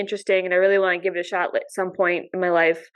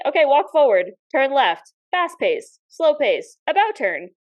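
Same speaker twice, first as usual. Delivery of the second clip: higher-pitched steward calling commands; imitated steward; 4 semitones higher than usual. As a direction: call out each order separately, imitating a steward. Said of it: "The steward's gonna be like".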